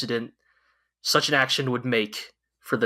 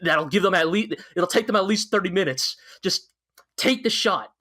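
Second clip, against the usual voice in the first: higher-pitched mock pleading; half-laughing, urgent imitation of a plea; begging; 5 semitones higher than usual. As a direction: act out an officer begging his commander. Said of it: "he's begging Yang".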